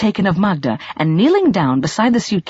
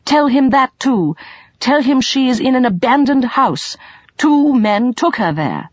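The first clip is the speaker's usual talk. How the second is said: higher, slowish insistent pleading; urgent young man; 7 semitones higher than usual. A narrator's reading. Colin pressing Sabahat to convince the gypsy, urgent. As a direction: lean on every tell him.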